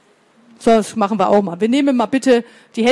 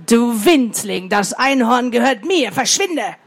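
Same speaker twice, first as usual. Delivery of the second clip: scolding monster. Acted. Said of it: "und schimpfte".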